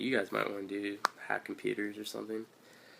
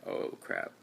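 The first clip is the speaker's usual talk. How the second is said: breathy whisper, much lower; whispered oh crap; 4 dB quieter than usual. Retold or imitated. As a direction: whisper it like a private alarm. Walking into room of recruiters.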